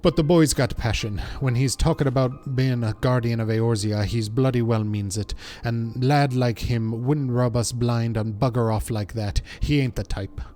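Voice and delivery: earnest, loosely Welsh dialect voice; amateur Welsh accent, defending the lad; attempted Welsh accent. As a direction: vouch for a young comrade in a rough Welsh accent. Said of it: "trying to do a Welsh accent".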